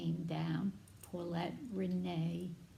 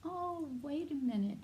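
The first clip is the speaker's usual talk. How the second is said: eager reassurance; 8 semitones higher than usual. Retold or imitated. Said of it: "He goes".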